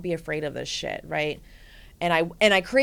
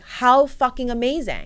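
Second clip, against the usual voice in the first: slow, higher, louder cheer; excited praise; 6 semitones higher, 6 dB louder than usual. Retold or imitated. Coach hyping up her client, excited and slow. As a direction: cheer her on, really mean it.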